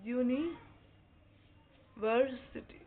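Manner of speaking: यूनिवर्सिटी drawn out very slowly; slow demo word. Shown as a demonstration. Teacher to class, very slow model word. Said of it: "teacher demonstrates pronunciation".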